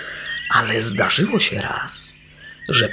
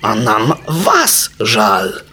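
offended; 4 dB louder, much slower than usual. Acted. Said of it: "obraził się fum".

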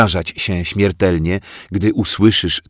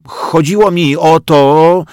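flustered; 9 semitones higher, 7 dB louder than usual. A narrator's reading. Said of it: "zmieszał się Bodzio".

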